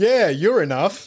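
mock, put-on sarcastic tone. Imagining a hypothetical reply, the speaker acts out a woman's sarcastic remark. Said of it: "What if she sarcastically says".

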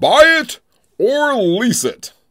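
announcer-style game show host delivery. Announcing a game to the audience, in a game show voice. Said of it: "That's my game show voice".

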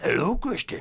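very high-pitched, creepy clown-like voice. Imagining Pennywise waiting by the car, greeting the speaker: Pennywise voice. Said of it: "Pennywise, the dancing, dancing clown was out there".

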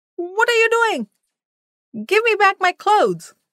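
very high, piercing, shrill yell. The guru shouts at his disciples as they collect his belongings, yelled. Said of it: "yelled the guru".

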